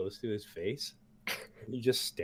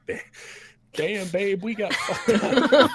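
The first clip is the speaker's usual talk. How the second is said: high, loud, shaky voiced player characters; hammed-up shock at their own state; mock dazed couple; 13 semitones higher, 10 dB louder, slower than usual. Two wounded adventurers reeling after the fight, high and hammed-up. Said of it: "and you're like".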